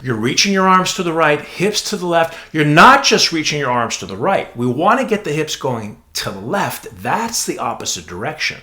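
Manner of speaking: relaxed explaining, as if to a friend; conversational explanation voice. Shown as a demonstration. Teacher demoing the conversational voice to trainees, relaxed. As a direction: talk it through, personal and easy. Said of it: "listen to the tone of voice".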